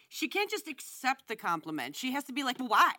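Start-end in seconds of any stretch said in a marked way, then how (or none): 2.6-2.9 rising mock whine. Mocking the woman's questioning.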